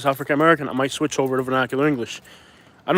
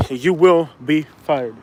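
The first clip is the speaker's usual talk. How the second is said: emphatic warning; much slower than usual. Real, not acted. Repeats the warning, word by word.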